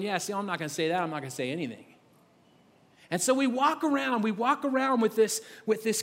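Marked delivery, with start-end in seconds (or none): 0.0-1.8 low, soft, closed-off refusal; clamming up. Retold or imitated. A person refusing to open up, quiet and low. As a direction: shut down quietly. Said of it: "have we gotten good at just going".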